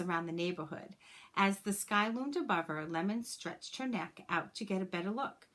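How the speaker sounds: put-on gentle, expressive read-aloud for children; story narration. A narrator's reading. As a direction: read it like a teacher sharing a picture book with the class. Reads a picture book to class.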